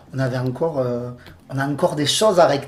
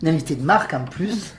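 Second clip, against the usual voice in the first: ordinary delivery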